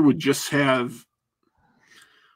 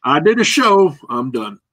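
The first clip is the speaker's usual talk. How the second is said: brain signing off; 4 dB louder than usual. Retold or imitated. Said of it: "is my brain going".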